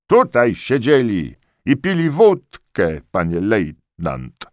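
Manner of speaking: high, loud servile report; eager corporal. A narrator's reading. Corporal reporting to the lieutenant, high and eager.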